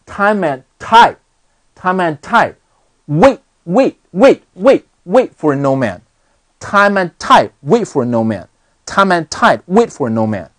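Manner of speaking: "time and" linked as "ti-man", "tide" with its d unreleased; "wait" stopped short with a silent t; linking, lost plosives. Shown as a demonstration. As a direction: link "time and tide" and swallow the final stops. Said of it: "顺序爆破了".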